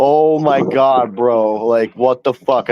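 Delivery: slow, drawn-out disbelief; imitated aghast reaction; mock horror. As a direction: stretch it out like an appalled onlooker. Imitating friend's horrified reaction.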